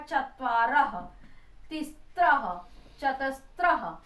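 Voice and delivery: each visarga word closed with a breathed aha; visarga sounded as aha. Shown as a demonstration. Teacher showing students the visarga, each ending with aha. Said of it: "आहा करके बोला जाता है".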